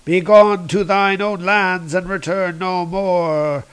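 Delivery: solemn god banishing intruders, mildly; a touch of grand, measured proclamation; lightly voiced stern god. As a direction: pronounce it like an ancient god, lightly. Voices the god Thoth in retelling.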